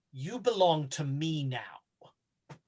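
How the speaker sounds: slow, low, possessive whisper; Nitocris. Acted. Game master plays Nitocris marking Hypatia's forehead, slow whispered claim. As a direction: whisper it slowly, claiming her. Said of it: "Nitocris puts a little blood".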